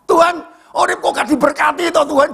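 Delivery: high, plaintive mock crying to God; imitated tearful complaint. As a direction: plead upward like someone bawling. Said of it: "Saya pulang nangis aku".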